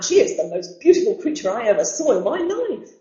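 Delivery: admiring cry. Acted. Man admiring Evelina to Lord Orville, excited cry. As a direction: rave with swooping pitch. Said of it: "cried the man".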